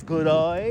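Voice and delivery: "good eye", the vowel of day opened to "eye"; Australian-style "good eye". Shown as a demonstration. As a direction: say "good eye" for g'day, with a wide Aussie vowel. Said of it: "More like good eye".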